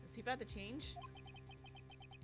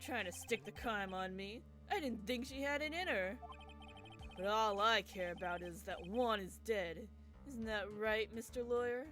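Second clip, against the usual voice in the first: sinister bro voice. Acted. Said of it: "the bro voice, but more sinister".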